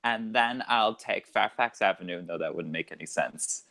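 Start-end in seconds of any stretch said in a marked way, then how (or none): 0.0-2.2 lightly put-on California accent. Shown as a demonstration. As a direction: give directions like a Californian. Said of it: "that was my California coming out".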